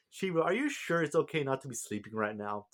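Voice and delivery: high-pitched mock concern; cocky retold taunt, voice lifted; cocky teasing. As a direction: needle someone with cocky fake sympathy. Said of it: "just being his, you know, cocky self".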